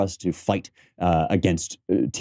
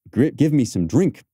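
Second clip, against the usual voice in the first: mock sick plea; 6 semitones higher than usual. Shown as a demonstration. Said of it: "it cried".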